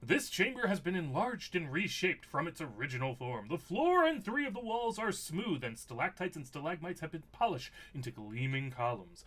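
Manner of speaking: read-aloud storyteller description, pitch rising and falling; game master narration. Acted. Game master describes the carved chamber to players, storyteller narration. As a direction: paint the room for the players.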